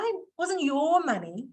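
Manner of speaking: "your" stretched and lifted; stress on YOUR. Shown as a demonstration. Trainer explains it was somebody else's, stress on "your". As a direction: lean knowingly on "your". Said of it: "putting the inflection on the word your".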